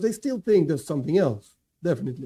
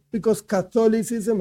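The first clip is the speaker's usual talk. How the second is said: Catholicism lifted higher for emphasis; stress on Catholicism; 4 semitones higher than usual. Real, not acted. Teacher explaining the Rambam's ruling, stressing the word Catholicism. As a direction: pitch Catholicism up as the key word. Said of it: "I stress this word again".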